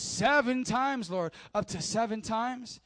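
slow, drawn-out boast of seven times; proud Peter. Retold or imitated. Peter offering Jesus seven times, proudly. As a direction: stretch it out like a generous offer. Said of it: "Peter went up to seven times".

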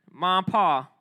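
light country accent on mom and pa. Shown as a demonstration. Youth director showing the group mom and pa, country accent. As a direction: say it with a touch of country twang. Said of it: "Who got the best country accent?".

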